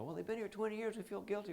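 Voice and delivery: lightly voiced guilt-ridden executive; hesitant client. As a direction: act out the guilty boss dragging their feet. Client's excuse, acted quote.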